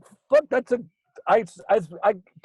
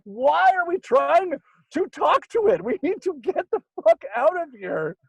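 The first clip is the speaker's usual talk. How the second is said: panicked; 11 semitones higher, 3 dB louder than usual. Retold or imitated. Urging his friend to flee the ghost, high and desperate. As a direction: stretch it out high and alarmed.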